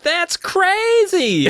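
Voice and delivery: high, long drawn-out protest; hammed-up insistent cry; insisting. A narrator's reading. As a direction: stretch it out high in disbelief. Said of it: "I insisted".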